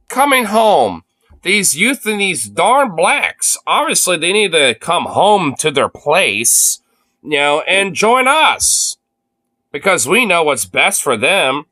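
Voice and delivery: put-on slow, drawn-out condescending old man; mock the patronizing old guy, slowly; imitating old politician. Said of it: "The fucking way he says that".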